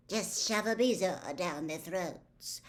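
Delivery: slow, lightly voiced casual aside; offhand scrawled note. The prince's note in the book, slow and offhand. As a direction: toss it off like a careless scribble.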